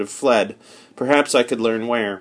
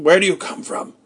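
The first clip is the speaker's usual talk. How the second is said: higher, suspicious challenge; wary stranger; 7 semitones higher than usual. Acted. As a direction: demand it warily.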